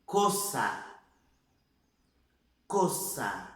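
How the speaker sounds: COÇA said as Spanish cosa, closed o; narrow, rounded o in COÇA; closed vowel. Shown as a demonstration. Teacher giving a word to repeat, closed vowel. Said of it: "só tem um som".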